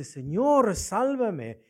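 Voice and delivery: Pedro. Retold or imitated. Peter sinking, pleading with Christ, retold cry for help. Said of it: "Pedro le grita a Cristo".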